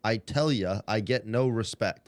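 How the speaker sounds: lightly voiced slow Rodney Dangerfield complaint; drawn-out self-pitying comic gripe, barely put on; a hint of Rodney Dangerfield. Comic quoting his famous line, lightly done Rodney Dangerfield. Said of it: "he'd write it the way he talked".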